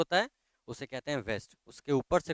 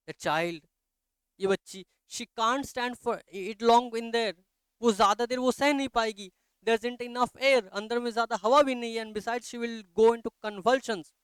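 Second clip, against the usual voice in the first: much higher and louder, urgent worry; fearful pleading; 10 semitones higher, 6 dB louder than usual. Acted. Mother warning that the child lacks air, fearful. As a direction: press the danger in a rush of fear.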